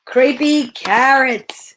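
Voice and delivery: slow, drawn-out spooky voice; spooky title. Acted. Reading the title to scare listeners, slow and spooky. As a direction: stretch it out like a scary title.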